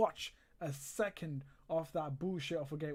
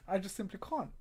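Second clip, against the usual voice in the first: laughing; 3 semitones higher than usual. Real, not acted.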